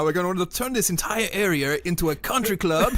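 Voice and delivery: put-on retry a hammy German-English accent; half German, half English accent. Podcaster voicing Nazis with property plans, botched German-English accent. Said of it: "this is my half German, half English accent".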